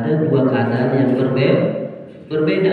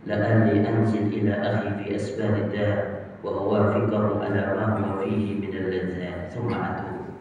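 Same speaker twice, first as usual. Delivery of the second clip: low, softer inner musing; inner thought; 6 semitones lower, 8 dB quieter than usual. Acted. The pious brother tempted in his own mind, low and quiet. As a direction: think it quietly to yourself. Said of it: "Dia bilang dalam diri dia".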